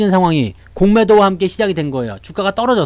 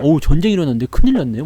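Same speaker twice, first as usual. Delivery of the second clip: mock worried chatter; 3 semitones lower, faster than usual.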